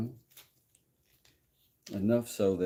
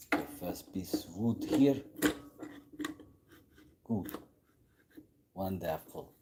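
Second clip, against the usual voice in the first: fake German accent. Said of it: "I like my fake German accent".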